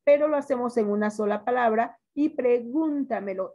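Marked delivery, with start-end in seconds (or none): 2.3-3.5 "pregúntamelo" slowed, leaning on GÚN; stress on GÚN. Shown as a demonstration. Teacher showing the tonic syllable, stress on GÚN in "pregúntamelo". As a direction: hit the second syllable of "pregúntamelo". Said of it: "es su sílaba tónica".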